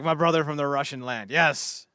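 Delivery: put-on half-managed Russian accent; hearty greeting in a poorly faked Russian accent; bad Russian accent. Russian bear dude hails his brother, bad Russian accent. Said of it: "I can't do a Russian accent".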